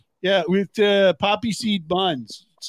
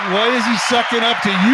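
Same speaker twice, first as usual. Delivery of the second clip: put-on Canadian accent; 3 semitones higher, 4 dB louder than usual. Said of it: "Great White North".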